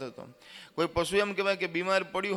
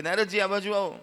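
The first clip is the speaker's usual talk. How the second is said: calling out; 3 semitones higher, 5 dB louder than usual. Acted. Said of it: "નારદજીને બોલાવે છે કે".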